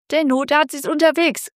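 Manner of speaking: mild call from the phone; lightly voiced dispatcher calling out. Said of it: "rief die Stimme am Telefon".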